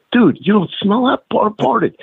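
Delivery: high, urgent, mock-incredulous; amused disbelief. Wrestler tells the ref about the fart, high and giddy.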